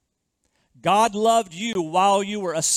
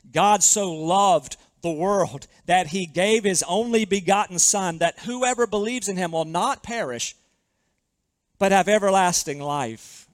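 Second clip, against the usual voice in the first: scripture reading. Shown as a demonstration. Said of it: "Hear these words again".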